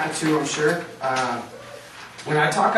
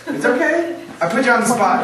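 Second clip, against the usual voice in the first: high, loud laughing comfort; laughing reassurance; 9 semitones higher, 7 dB louder than usual. Real, not acted. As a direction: laugh it off to ease the student. Reassuring student put on spot.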